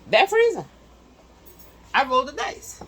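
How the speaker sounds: high and loud, hyped about the freezer; excited showing off. Real, not acted. Showing viewers the freezer she gambled on, thrilled. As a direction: show it off like a prize you won.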